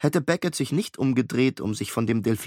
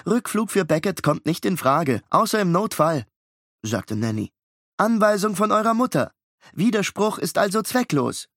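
higher, firm synthetic woman; AI nanny voice; 7 semitones higher than usual. Acted. Surveillance system refusing the twins, firm AI woman. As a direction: state the rule like a machine. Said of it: "mit der Frauenstimme ... eigenartigen Akzent".

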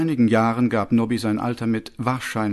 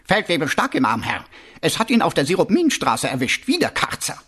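raised-pitch officer's report; reporting captain; 5 semitones higher than usual. Acted. Captain reporting a watchman's murder to his commander, raised voice. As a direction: report up to your superior, pitch lifted.

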